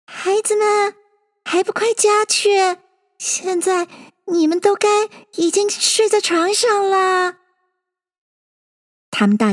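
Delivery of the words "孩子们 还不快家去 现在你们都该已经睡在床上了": high, quavering mother bird; anxious, high, tremulous summons; trembling voice. A narrator's reading. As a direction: call the children home with a tremble. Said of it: "声音发抖".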